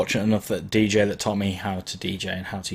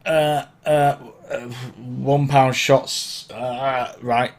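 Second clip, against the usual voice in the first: hesitant, stumbling mock announcer, slow on one pound shots; mock nervous MC umming on the mic; hesitant bad MC; 3 semitones higher, much slower than usual. Shown as a demonstration. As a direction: fumble it like you forgot your line. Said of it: "Don't get on the mic and then go".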